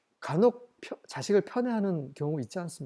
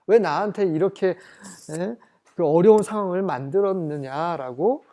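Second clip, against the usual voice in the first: scolding complaint; 6 dB louder than usual. Retold or imitated. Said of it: "막 이렇게 불평을 하고 야단을 치고".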